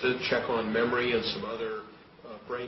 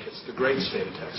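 "great" lifted and leaned on, "state of Texas" falls away; stress on great. Shown as a demonstration. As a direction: proudly punch the word "great". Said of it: "You gotta say that".

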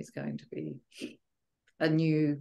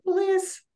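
"bliss" stretched slowly, lifted much higher and louder; drawn-out bliss; 7 dB louder than usual. Shown as a demonstration. Savouring "bliss" as she relives the retreat. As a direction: savour the word "bliss", high and slow. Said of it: "I've even thought of that word".

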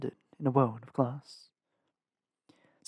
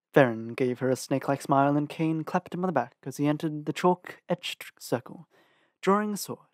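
ordinary delivery

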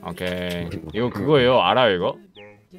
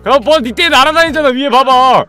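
raised, higher-pitched nagging yell; exasperated scolding; 4 semitones higher than usual. Real, not acted. Host to player whose armour makes them float, exasperated scolding. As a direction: order them angrily, really fed up.

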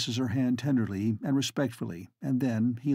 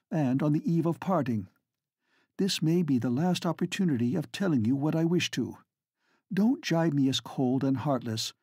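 earnest lady; 2 semitones higher than usual. Acted. Flora speaks earnestly to Estcourt.

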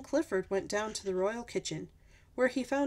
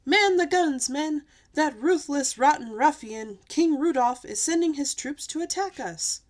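loud, high captain's command; rally the troops with a storybook shout; battle cry; 5 semitones higher, 8 dB louder than usual. A narrator's reading. Captain orders soldiers to battle.

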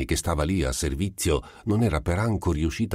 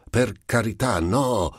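crying out; 7 semitones higher than usual. A narrator's reading. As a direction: push her away with a cry. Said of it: "le gridò lui". (grido implorante)

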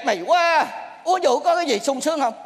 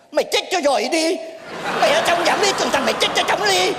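mildly raised comic cursing; indignant outburst; 3 semitones higher than usual. Acted. Master curses pupil's five-million fee on the phone, indignant outburst. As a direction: turn on the caller in outrage.

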